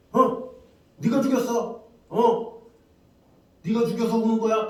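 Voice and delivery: soldier's demand. Retold or imitated. Soldier demanding whether the crying boy killed it, accusing. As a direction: press the boy hard.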